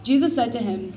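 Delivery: loud, careful Bible reading for the congregation; a gently formal reading voice; scripture reading. Acted. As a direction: read the passage out to the church. Children read scripture in church.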